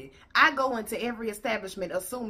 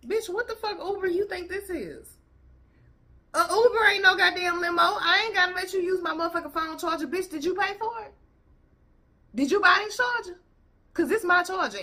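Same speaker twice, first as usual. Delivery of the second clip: higher, louder heated rant; fired-up rant; 9 semitones higher, 4 dB louder than usual. Real, not acted. Vlogger ranting at the Uber rider, loud and high. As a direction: tear into her, heated.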